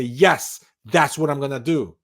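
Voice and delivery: loud firm certainty; confident yes. Shown as a demonstration. Coach demonstrating confident self-talk, loud and firm. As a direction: say it like you mean it. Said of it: "when you speak like this".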